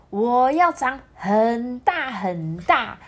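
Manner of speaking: a lightly voiced eager child, slow; little chameleon telling mom. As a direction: stretch out the big dream. Child declares wish to mom.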